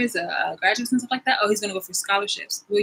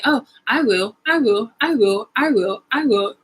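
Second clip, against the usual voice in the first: eager animals; 4 semitones higher, 3 dB louder than usual. Acted. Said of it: "everybody was just like".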